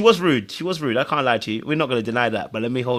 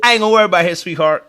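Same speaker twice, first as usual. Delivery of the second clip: laughing tease; 5 semitones higher, 7 dB louder than usual. Real, not acted. Teasing banter, laughing.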